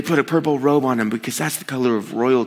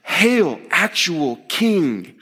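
sincere praise; 5 semitones higher, much slower than usual. Shown as a demonstration. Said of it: "we're saying it, not mockingly".

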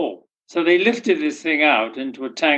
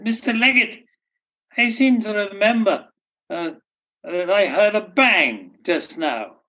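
put-on high-pitched old lady voice, slowing at the end; deaf old lady; 6 semitones higher than usual. Deaf old lady asks Alf Leggett about the bang, high old lady voice.

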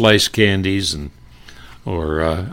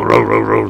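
locomotive noise; 2 semitones higher, 5 dB louder than usual. Retold or imitated. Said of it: "the locomotive effect".

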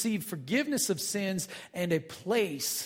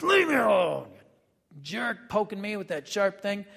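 mock annoyed ox; 2 semitones higher than usual. The ox kicking back at the driver with his stick, mock annoyed. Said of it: "they would kick".

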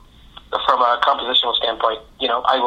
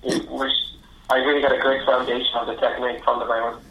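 far from mic. Real, not acted. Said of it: "'Cause it sounds like you're far away".

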